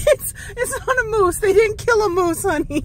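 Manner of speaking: laughing. Real, not acted. Mom laughing while reassuring.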